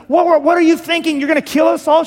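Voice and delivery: hammed-up frantic protest, pitched well up; mock screaming. Abigail imagined screaming the truth at David, mock scream. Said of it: "screaming the truth at him".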